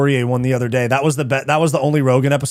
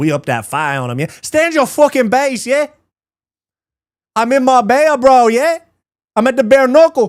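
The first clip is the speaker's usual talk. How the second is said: very high, loud put-on UK accent; 10 semitones higher, 5 dB louder than usual. Talking about doing accents, showing one off: put-on accent. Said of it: "Why do a Y N accent?".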